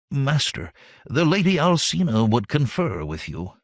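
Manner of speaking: lightly voiced quavering old servant, bowing; a hint of a trembling old retainer intoning. A narrator's reading. Servant announcing a visitor to his master, lightly quavering. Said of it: "intoned in his quavering voice".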